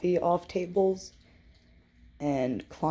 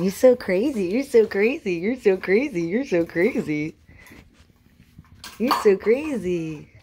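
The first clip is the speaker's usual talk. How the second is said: louder playful chant at the cat; loving tease; 3 semitones higher, 5 dB louder than usual. Real, not acted. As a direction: keep repeating it, fondly teasing. Repeats to the pacing cat.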